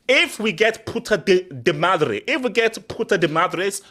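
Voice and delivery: put-on Spanish said with a heavy American accent; gringo Spanish accent. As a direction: Anglo tourist saying Puta de Madre. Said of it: "you sound like a gringo".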